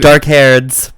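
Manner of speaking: teasing echo with a laugh. Real, not acted. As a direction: repeat it, cracking up. Mocking friend's phrase, laughing.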